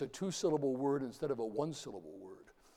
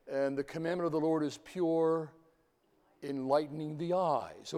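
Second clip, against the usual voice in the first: measured psalm reading, slightly raised voice; scripture recitation; 3 semitones higher, 5 dB louder than usual. Acted. Lecturer quoting a Psalm to show repetition, measured recitation. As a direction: recite the verse in balanced phrases, pausing before key words.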